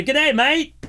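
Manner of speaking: high, bright mock Australian greeting, hammed-up; a host's playful, bad Australian accent. Radio host greets an Australian caller in a mock Australian accent. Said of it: "bad Australian accent".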